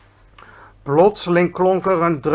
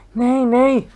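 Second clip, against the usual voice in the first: high, louder panicky denial; crying out denial; 7 semitones higher, 5 dB louder than usual. A narrator's reading. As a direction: protest quickly in a raised, higher voice. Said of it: "riep de G V R".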